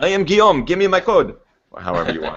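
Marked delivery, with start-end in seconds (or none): 0.0-1.4 loud put-on French accent, very high pitch. Suggesting a line to tweet, spoken in a put-on french accent. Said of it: "in a French accent".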